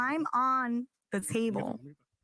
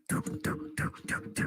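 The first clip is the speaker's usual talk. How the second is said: imitated sound effect; 4 dB quieter than usual. Mimics the broom hitting about.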